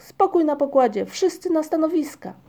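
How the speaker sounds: high, loud captain's orders; commanding shout. A narrator's reading. Migotek commands the crew on deck, shouting. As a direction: call all hands to their posts. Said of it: "krzyknął Migotek".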